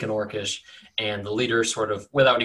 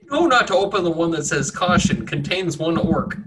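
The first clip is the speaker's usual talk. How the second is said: label read; 5 semitones higher, 4 dB louder than usual. Acted. GM reads the barrel label.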